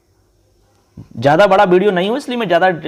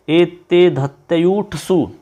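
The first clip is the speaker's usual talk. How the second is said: slow recitation; much slower than usual. Shown as a demonstration. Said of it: "छोटा सा सूत्र है".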